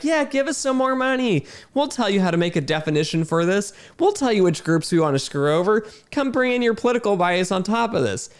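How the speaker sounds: mock an eager sales pitch; mock pushy consultant. Mocks consultants pushing for money.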